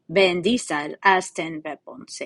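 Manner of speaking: "Vin Diesel has ten weapons" said slowly in a mock Russian accent; hammed-up Russian accent, slow and heavy. Shown as a demonstration. Teacher shows students the mnemonic in a Russian accent. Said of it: "you have to say it in a Russian accent for it to work".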